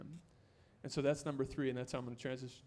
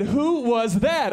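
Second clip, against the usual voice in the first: loud, slow, stretched-out wow; drawn-out, dazzled exclamation; a hammed-up lovestruck gasp of a question; smitten amazement; 6 semitones higher, 13 dB louder, much slower than usual. Seeing future wife walk in.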